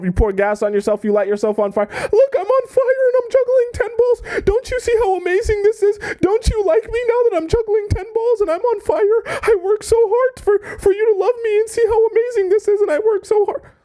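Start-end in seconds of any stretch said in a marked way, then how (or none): 1.9-13.6 fake tearful crying, begging tone, higher. Acting out a desperate suitor juggling to win someone over: mock crying while pleading. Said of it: "I'm, like, crying".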